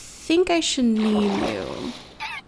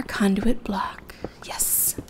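mad scientist; 3 semitones lower, 5 dB quieter, much slower than usual. Pretend. Gleeful whispered scheming.

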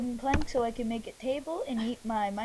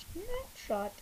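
whisper; 7 semitones higher than usual. Real, not acted. Takes a game picture.

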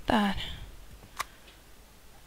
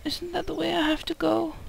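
whispering; 5 semitones higher, 3 dB quieter than usual. Real, not acted. Sneaking past someone in game.

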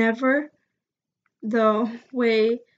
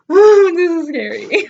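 laughing; 4 semitones higher, 3 dB louder than usual. Real, not acted. Nervous laugh at a text reply.

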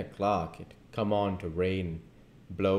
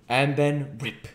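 excited rip; 7 semitones higher, 5 dB louder, slower than usual. A narrator's reading. Storm narration.

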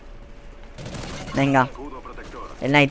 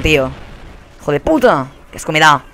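normal talking voice

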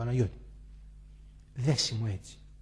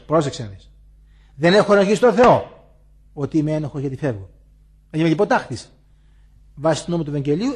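loud, a touch stern; firm husband's farewell; 7 dB louder than usual. Retold or imitated. Husband tells the guilty wife he is leaving, loud and firm. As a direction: lay down the law and walk out.

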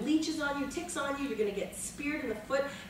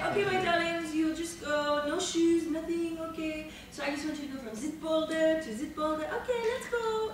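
mock director; 5 semitones higher than usual. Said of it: "He'd say".

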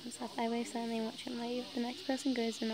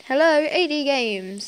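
slow, loud, higher receptionist voice; slower put-on man's voice; 4 semitones higher, 14 dB louder, slower than usual. Man at the company answering, in a slow put-on voice. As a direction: draw it out like a company phone line. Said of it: "trying to do a voice".

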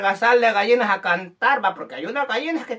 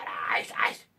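low, much quieter muttered question; puzzled mother; 12 semitones lower, 12 dB quieter than usual. Acted. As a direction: mumble it in bafflement, low and soft. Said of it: "Tu mamá te queda preguntando". (mamá confundida, bajito y grave)

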